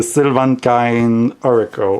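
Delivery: Sylvan Kind in an English accent. Shown as a demonstration. Naming the oracle deck reluctantly, English accent on own name. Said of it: "say this word with an English accent".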